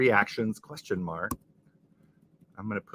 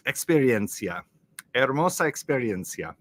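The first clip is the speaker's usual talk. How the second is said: "Hermosa Experiencia" with Spanish vowels and rolled sounds; Spanish pronunciation try; Spanish accent. Shown as a demonstration. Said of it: "How's my accent?".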